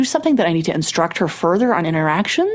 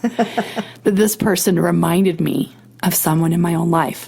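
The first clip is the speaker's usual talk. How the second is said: choked up, fighting tears; choking up; 2 semitones lower than usual. Real, not acted. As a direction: voice tight with held-back tears. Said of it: "Look, I'm choking up".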